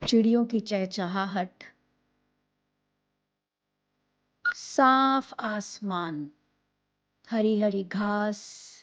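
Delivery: slow, soft meditation voice with long pauses; calm, hushed guiding voice, phrase by phrase; guided meditation. Acted. Leads a breathing and visualization meditation.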